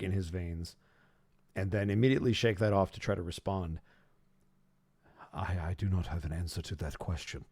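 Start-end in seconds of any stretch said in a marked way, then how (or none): 5.3-7.4 quiet hesitant reply. Acted. Fenris answers the god.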